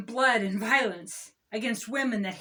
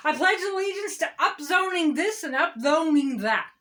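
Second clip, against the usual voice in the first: David Faber; 3 semitones higher than usual. Acted. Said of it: "I'm David Faber".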